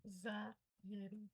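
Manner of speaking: "Anxiety" very slowly, an - ZA - ieri. Shown as a demonstration. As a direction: break "Anxiety" into slow syllables. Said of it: "o T vai pegar um som de R". ("Anxiety" sílaba por sílaba, T com som de R)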